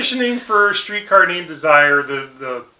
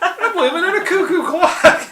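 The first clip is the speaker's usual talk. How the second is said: high cartoon wail through a laugh; Homer; 13 semitones higher, 4 dB louder than usual. Homer not knowing what's going on, mock wail. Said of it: "and he's like".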